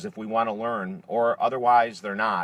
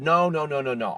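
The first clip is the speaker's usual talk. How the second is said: higher-pitched retold protest; insistent refusal; 4 semitones higher than usual. Homeless man turning down the storyteller's gift, insistent. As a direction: imitate an adamant refusal.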